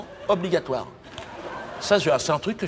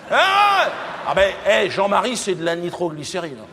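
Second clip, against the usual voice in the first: excited exclamation; 4 semitones higher than usual. Acted. Boasting about Jean-Marie.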